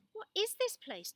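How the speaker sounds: put-on boy in awe at the hidden land; amazed question. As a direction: gasp in wonder at the new place. Tully amazed at the horizon.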